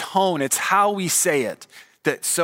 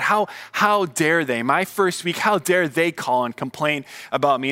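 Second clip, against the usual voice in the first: mock indignant rant; 3 semitones higher than usual. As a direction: replay the huffy twenty-two-year-old. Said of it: "I was mad".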